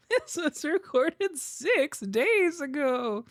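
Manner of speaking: slightly hammed-up echo of an announcer, very slow; mimicked dramatic announcement. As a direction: draw it out like a mock announcement. Repeats the clip's announcement.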